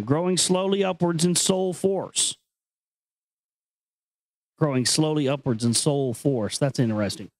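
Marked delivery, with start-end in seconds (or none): 0.0-2.4 grave reading voice, pitched up from his chat; solemn recitation. Acted. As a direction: intone the line like scripture. Reads ancient text aloud.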